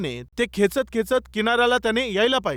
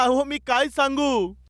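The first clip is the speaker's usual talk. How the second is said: mild mock yell; half-shouted helpless plea, slightly raised pitch; man calling back; 2 semitones higher than usual. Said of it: "तो तिकडून ओरडू लागला".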